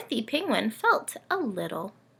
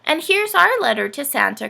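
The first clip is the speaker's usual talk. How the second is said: higher, louder eager cry; excited; 7 semitones higher, 6 dB louder than usual. Acted. Ness showing the letter to Santa, excited. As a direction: burst out with the news. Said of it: "cried Ness excitedly".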